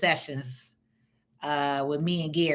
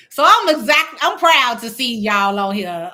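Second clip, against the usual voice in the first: excited praise; 6 semitones higher, 9 dB louder than usual. Real, not acted. Hypes up his viewers.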